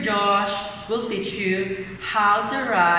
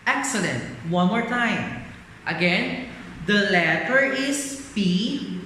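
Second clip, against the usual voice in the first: sing song rote recitation. Acted. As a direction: chant it like a classroom drill. Phonics drill.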